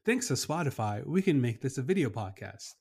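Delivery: upbeat commercial announcer voice; hard sell ad. Pretend. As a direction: pitch it like a radio spot. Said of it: "that's my, um, commercial voice".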